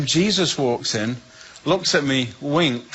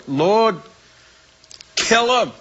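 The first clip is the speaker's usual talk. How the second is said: cried out; 8 semitones higher, slower than usual. Retold or imitated. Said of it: "I cried out to the Lord".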